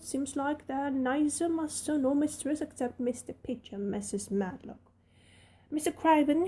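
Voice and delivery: put-on friendly servant girl rattling on; Yorkshire maid Martha.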